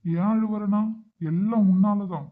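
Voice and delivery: upset, loud reproach; tearful blame. Acted. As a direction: blame the granddaughter for the tears. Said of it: "இப்ப நீங்க எதுக்கு அழுதுட்டு இருக்கீங்க?".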